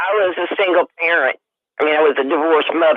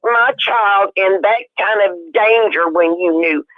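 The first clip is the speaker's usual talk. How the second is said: furious; 4 semitones higher than usual. Retold or imitated. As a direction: hurl it at her parents, incensed. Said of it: "I was so mad".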